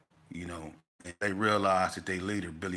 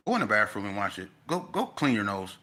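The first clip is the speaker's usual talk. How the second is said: teacher's order; 5 dB louder than usual. Retold or imitated. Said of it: "Mister Anderson said".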